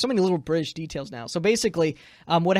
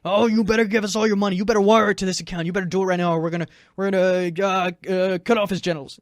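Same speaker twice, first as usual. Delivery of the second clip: fast, louder mock-villain threat; kidnappers; 4 dB louder, faster than usual. Kidnappers demanding money from girlfriend, mock threatening. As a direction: rattle off demands like a hammy kidnapper. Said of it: "the kidnappers, meanwhile, are saying".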